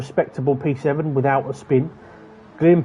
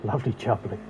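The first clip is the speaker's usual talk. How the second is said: mock British; 4 semitones lower, 7 dB quieter than usual. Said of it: "a German person saying lovely jubbly".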